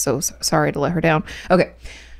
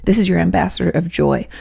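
usual speaking voice

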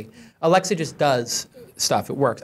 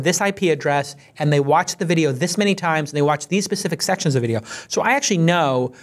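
ad read. Acted. Sponsor ad read in podcast.

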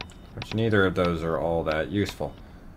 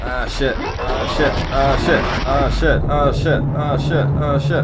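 frustrated cursing; 4 semitones higher, 4 dB louder than usual. Real, not acted. Missing shots, frustrated.

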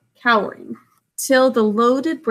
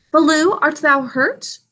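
concerned question; 6 semitones higher than usual. Acted. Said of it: "Bagheera asked".

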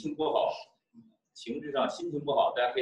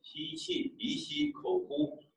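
slow breath in through the nose; audible breathing; 14 semitones higher, 7 dB quieter, slower than usual. Shown as a demonstration. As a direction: breathe in and out audibly while cueing. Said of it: "做虚呼".

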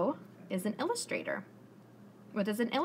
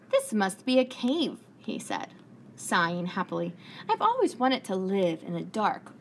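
lively storybook narration for little listeners; reading to children; 3 dB louder than usual. A narrator's reading. Teacher reading aloud to her class, lively storybook voice. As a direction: tell it like story time on the rug.

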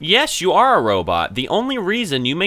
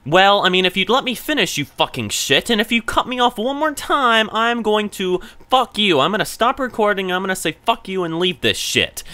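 high, heated threatening rant; angry rant; 7 semitones higher than usual. Real, not acted. Warning the chatbot not to interrupt again, angry and raised.

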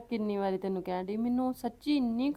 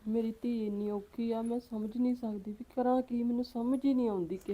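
soft, helpless lament; tearful; 5 dB quieter than usual. Acted. Mother despairing over her suffering daughter, tearful. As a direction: grieve quietly, at a loss. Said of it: "ਚੱਲ ਕੋਈ ਚੁੱਪ ਕਰ".

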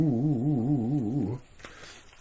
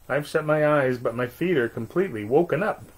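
bouncy ball; 3 semitones higher than usual. Acted. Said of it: "in a very boing-, bouncy voice".

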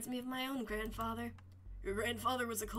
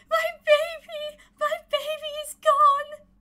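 ghost voice; 13 semitones higher, 11 dB louder than usual. Acted. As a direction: moan it like a grieving ghost. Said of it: "Made you sound like a ghost instead of yelling".

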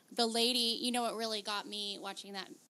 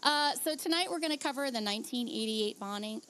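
numb lips. Real, not acted. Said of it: "my lips are numb right now".

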